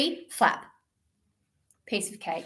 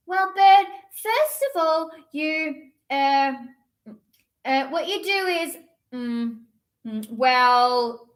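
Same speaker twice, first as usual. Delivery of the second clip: hesitant kitten. Acted.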